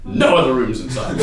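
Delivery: normal talking voice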